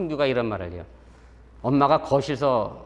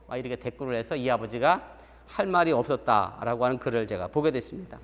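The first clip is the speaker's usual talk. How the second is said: usual speaking voice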